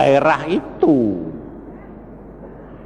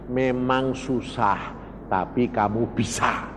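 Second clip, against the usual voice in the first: voicing God; 6 semitones lower, 8 dB quieter than usual. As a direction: say it gently, like a quiet assurance. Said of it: "Tuhan ngomong lagi".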